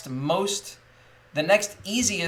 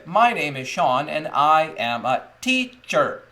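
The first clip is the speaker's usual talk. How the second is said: put-on louder and slow, spelling it out for kids; slow classroom model sentence; 3 semitones higher, 5 dB louder than usual. Shown as a demonstration. Teacher modelling a sentence for young learners, slow and clear. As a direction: say it slowly for the class to copy. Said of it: "And I say it like that".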